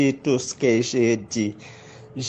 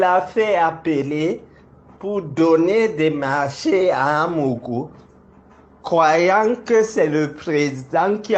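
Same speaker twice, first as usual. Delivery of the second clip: raised, defiant accusing voice; heated; 5 semitones higher than usual. Real, not acted. Public accusation, defiant heated denunciation.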